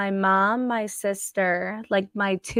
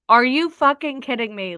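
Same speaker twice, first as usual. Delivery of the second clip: angry outburst; 4 semitones higher, 5 dB louder than usual. Retold or imitated. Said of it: "I literally just went off".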